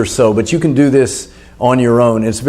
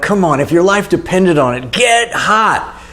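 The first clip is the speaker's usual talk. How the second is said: urging on; 3 semitones higher than usual. Retold or imitated. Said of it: "I'm like".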